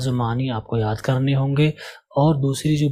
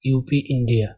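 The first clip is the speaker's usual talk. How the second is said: slow demo reading. Shown as a demonstration. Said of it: "دوسرے جملے کو پڑھوں گا".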